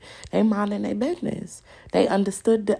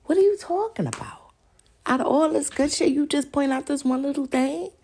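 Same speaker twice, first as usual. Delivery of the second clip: high, loud outburst; exasperated; 7 semitones higher, 5 dB louder than usual. Real, not acted. Calling out people who pick on one thing, loud. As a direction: demand an answer in disbelief.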